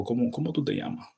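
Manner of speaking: Dominican casual. Shown as a demonstration.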